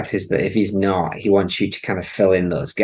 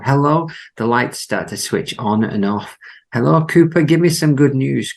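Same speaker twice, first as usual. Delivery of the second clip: Gordon Cole shout; 5 semitones higher than usual. Acted. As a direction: yell it into the intercom. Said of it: "says Gordon Cole".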